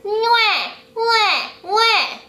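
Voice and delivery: put-on high baby wail with an open face; high open mock baby cry. Shown as a demonstration.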